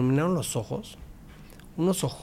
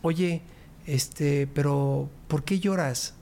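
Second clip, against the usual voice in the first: joking tease; 3 semitones higher, slower than usual. Retold or imitated. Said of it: "me gusta hacer bromas".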